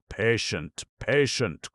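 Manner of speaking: high, loud cry between laugh and sob; bitter cry. A narrator's reading. Anguished husband cries out bitterly at the doctor's question. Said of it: "cried Abogin with a laugh, a sob".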